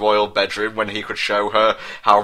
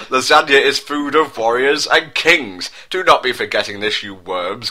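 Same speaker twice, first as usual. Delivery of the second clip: mock roar; 2 semitones higher than usual. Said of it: "Garfield roared".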